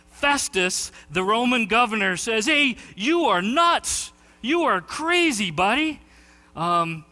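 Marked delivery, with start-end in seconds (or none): 2.4-6.0 high, slow mock heckler shout. Festus heckling Paul during his speech, a high mock shout. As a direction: jeer it like a heckler mid-speech. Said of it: "he shouts at Paul".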